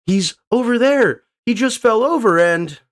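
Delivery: high squeaky cartoon voice; high character voice. Voicing a character.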